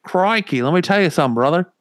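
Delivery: high, badly faked Australian wrestler promo; Australian-accented Hulk Hogan. Attempting the wrestler's catchphrase for friends, badly faked Australian accent. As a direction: pitch up a hammy Australian wrestler rant. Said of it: "I can't do it".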